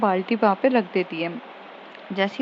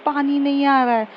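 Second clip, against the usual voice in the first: slightly raised repeat after "क्या?"; repeated a bit louder; 4 semitones higher than usual. Acted. Smriti repeating to her roommate who didn't catch it, slightly raised. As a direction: say it again a touch higher, so she hears. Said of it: "क्या?".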